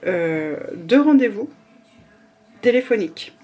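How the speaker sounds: hiccups. Real, not acted. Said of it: "Pardon, j'ai le hoquet".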